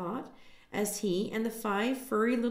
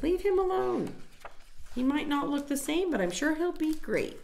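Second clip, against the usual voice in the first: fierce mother duck; 9 semitones higher than usual. A narrator's reading. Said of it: "Mother says".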